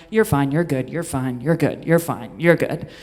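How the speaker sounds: low, repeated self-reassurance; calm yourself down on a loop; self-soothing mantra. Retold or imitated. Talking herself down alone on the drive home. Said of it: "talking to myself the whole drive home going".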